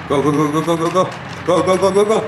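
rising excited chant of go; cheering on. Real, not acted. Cheering brother on to score.

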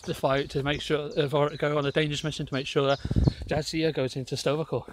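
lightly voiced boozy Irish engineer; hint of a tipsy officer addressing the captain; mild comic drunk Irish impression; Chief O'Brien. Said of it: "I'm just Chief O'Brien, the alcoholic version".

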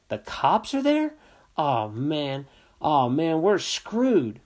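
put-on a kid who knows he's caught; panicked friend. A narrator's reading. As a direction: Joe on the phone, panicking about the cops. Joe panics hearing police.

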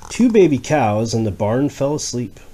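gentle rhyming read-aloud; reading to a child. Acted. Parent reading a rhyming book to a child.

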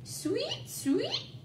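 very high, soft chirp; bird tweet. Acted. Teacher voicing Bird in the story, high soft chirp. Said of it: "said Bird".

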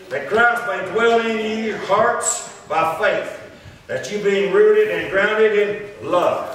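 slow, measured declamation from the pulpit; scripture read aloud. Real, not acted. Preacher reading Saint John to the congregation, slow declamation. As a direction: sustain each phrase as solemn Bible reading.

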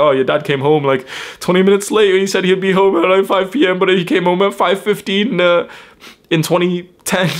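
high, loud whiny mum voice, mocked; mock complaining mum. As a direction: lampoon the mum nitpicking an old grievance. Mum's old grievance mocked.

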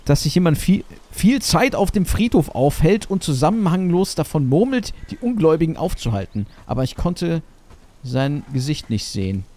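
stilted machine-translation read; robotic translator voice. Acted. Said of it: "Google Translator".

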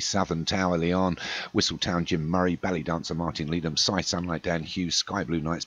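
brisk race announcer listing runners; race caller reading the field. Acted. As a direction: rattle off the runners like a track caller.

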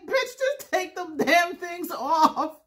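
slow, high quote through tears of laughter; laugh-cry retort. Retold or imitated. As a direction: blurt it out while crying with laughter. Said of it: "I'm crying".

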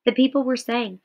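measured read-aloud narration; story reading. Acted. Teacher reading Night aloud to students, measured narration. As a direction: read the memoir passage to the class with steady care.

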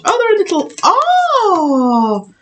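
delighted. Real, not acted. Showing the tiny wafers to viewers, delighted cooing. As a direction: coo over something tiny and cute.

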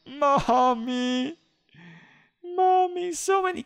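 high whiny wail for mommy; fake-sob for mommy; mock crying. Player pretending to cry after losing his car, high whiny mommy wail. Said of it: "I'm gonna cry".

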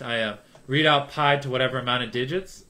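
ordinary delivery

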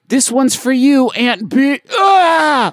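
high dying soldier's scream; death cry. Shown as a demonstration. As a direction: scream it out as you die. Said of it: "For example, try".

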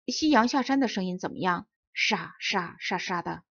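grave and measured, slowing on 沙沙沙沙的; serious. Acted. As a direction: solemnly offer the sunset's rustle as music. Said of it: "局长严肃地说".

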